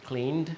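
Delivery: "cleaned" with a voiced final D; D ending. Shown as a demonstration. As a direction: slowly demonstrate "cleaned" as "kleend". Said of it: "One sounds like a".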